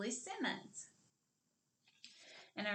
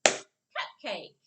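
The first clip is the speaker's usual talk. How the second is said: "Cupcake" as one joined word, louder; blended together; 9 dB louder than usual. Shown as a demonstration. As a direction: clap the syllables into one loud word. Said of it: "Now let's clap it together".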